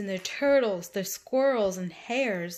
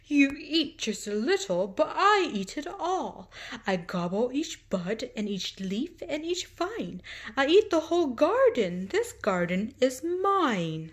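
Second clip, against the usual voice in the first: woodchuck; 5 semitones higher, 3 dB louder than usual. Acted. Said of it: "sniffed the woodchuck".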